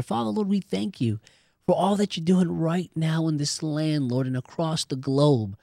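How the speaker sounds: spoken prayer to the Father, earnest. Acted. Host leading listeners in closing prayer, earnest and steady. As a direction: pray it aloud for the listeners.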